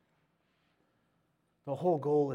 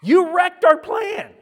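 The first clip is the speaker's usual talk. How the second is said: 1 annoyed elder; 15 dB louder, slower than usual. Retold or imitated. Elders complain in retold scene.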